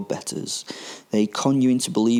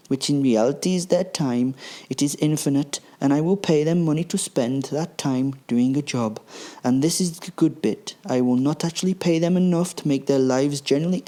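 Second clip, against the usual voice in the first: smug villain Hans; 5 semitones higher than usual. Acted. Hans explains plan to Gruber.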